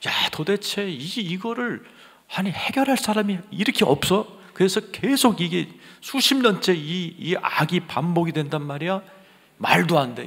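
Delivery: high-pitched, exasperated outcry; pent-up indignation. Retold or imitated. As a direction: retell a frustrated inner outburst. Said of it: "막 울분이 치밀면서". (울분에 찬 높은 목소리)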